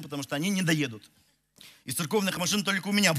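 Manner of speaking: normal talking voice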